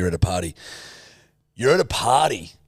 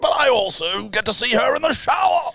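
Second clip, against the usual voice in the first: posh English ghost; 13 semitones higher than usual. Acted. Posh English ghost argues he can watch her shower. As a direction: squeal it like a lecherous old ghost. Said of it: "posh English ghosts".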